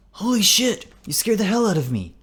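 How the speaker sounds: high, loud startled outburst; jumpy and scared, pitch shooting up; shout-whisper. A narrator's reading. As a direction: blurt it in a high fright. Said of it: "Carl also shout whispers".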